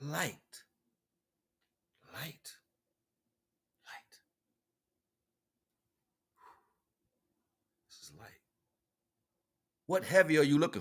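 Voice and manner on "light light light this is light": each one softer until barely there; fading repeats. Acted. Preaching about light, repeating it ever softer. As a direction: let the word die away.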